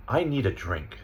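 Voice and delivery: "a" reduced to a schwa; unstressed article. Shown as a demonstration. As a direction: let "a" shrink to a quick uh. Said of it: "I'm gonna read the sentences".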